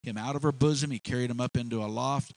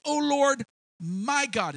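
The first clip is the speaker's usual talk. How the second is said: crying out; 11 semitones higher, 4 dB louder, slower than usual. Acted. Elijah crying out again.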